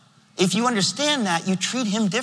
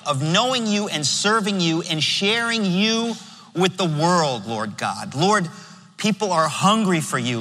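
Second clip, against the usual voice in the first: closing prayer. Acted. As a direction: pray it over the congregation, unhurried. Pastor leads closing prayer.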